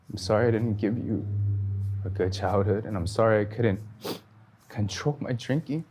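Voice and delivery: pleading sorry, breaking slightly between phrases; tearful apology retold. Father apologizing to his son, tearful and halting. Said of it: "he started crying".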